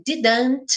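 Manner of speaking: DIDN'T with a hard middle D; careful, unreduced "didn't"; full D. Shown as a demonstration. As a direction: sound both D's in "didn't". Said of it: "posso pegar esse dedo".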